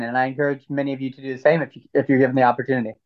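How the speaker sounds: talking through a bite of brownie; chewing while talking. Real, not acted. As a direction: speak around a mouthful. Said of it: "I'm trying to eat a brownie as I have this conversation".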